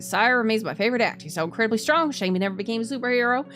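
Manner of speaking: put-on light Southern accent reading a letter. Streamer reading hero's letter in Southern accent. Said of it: "giving this guy a southern accent".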